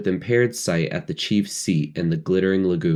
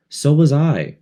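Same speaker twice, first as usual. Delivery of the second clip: ordinary delivery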